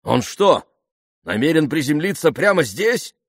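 high, loud, incredulous outcry; alarmed exclamation. A narrator's reading. Colonel watching a plane descend, alarmed exclamation. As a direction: exclaim in outraged disbelief. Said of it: "воскликнул полковник".

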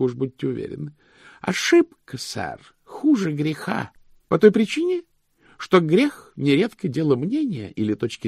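high, emphatic pedant's voice; high-pitched, righteous clerk; stern, zealous chief cashier. Acted.

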